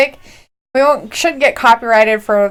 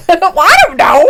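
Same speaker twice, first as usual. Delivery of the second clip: laughing; 7 semitones higher, 5 dB louder than usual. Real, not acted. Laughing about her voice.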